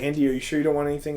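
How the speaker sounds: rapid eager asking; fast eager question. Retold or imitated. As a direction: rattle it off eagerly. Bob asks again.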